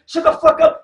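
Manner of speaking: man shouting at a woman; angry shout. Retold or imitated. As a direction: bark it at her. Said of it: "You tell one nigga woman".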